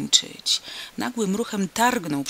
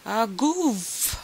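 roar; 4 semitones higher than usual. A narrator's reading. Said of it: "ryknął na cały cyrk".

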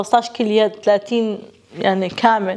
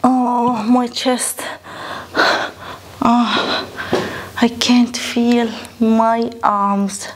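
tired groan; much slower than usual. Real, not acted. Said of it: "مش قادرة أحس".

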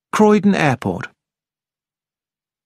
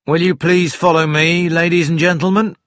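official request, pitch slightly raised; courteous police inspector; 4 semitones higher than usual. Acted. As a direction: politely direct a group to follow.

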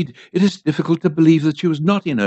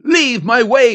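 higher-pitched, forceful command; restrained yell; 6 semitones higher, 3 dB louder, slower than usual. A narrator's reading. Priest threatens the old woman, restrained yell. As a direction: raise the voice to order her aside. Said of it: "yelled the priest".

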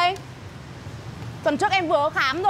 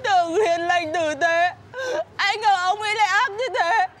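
tearful. Acted. Crying to friend over betrayal.

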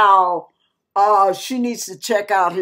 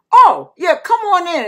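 higher, welcoming imitation; eager welcome; 7 semitones higher, 4 dB louder than usual. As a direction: usher a stranger in keenly. Man eagerly welcomes the stranger.

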